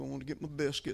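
hint of put-on Southern accent. Recalling heading out one morning, with a little Southern accent. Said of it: "Put a little Southern in there for you".

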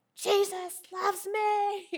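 loud, high all-out holler with "me" stretched long. Retelling hollering at the adversary in a dream: imitating own hollering. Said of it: "I just hollered out".

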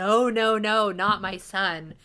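intense, loud, drawn-out, desperate screaming cry. Describing an actor's intense scene, the speaker imitates him screaming. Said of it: "he's like screaming".

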